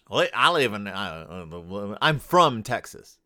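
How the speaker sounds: put-on halting, half-failed Texas accent. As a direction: fumble your way into a Texas accent. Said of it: "I can't do a Texas accent".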